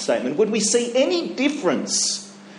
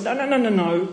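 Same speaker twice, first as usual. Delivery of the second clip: quiet self-assurance; 4 dB quieter, slower than usual. Shown as a demonstration. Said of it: "you need to say to yourself".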